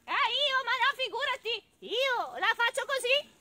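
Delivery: high cooing bird voice; pigeon. Acted. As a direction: trill the denial like a pigeon. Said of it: "E così andò dal piccione".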